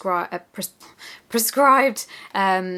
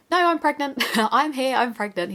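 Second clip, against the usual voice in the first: excited; 7 semitones higher than usual. Retold or imitated. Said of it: "I was like".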